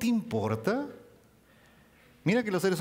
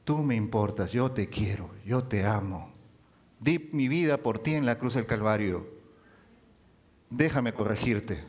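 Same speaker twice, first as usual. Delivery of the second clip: tender diminutives; 4 semitones lower than usual. Acted. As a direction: call each name fondly. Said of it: "que nos dice". (Cristo llamando con cariño a sus hijos)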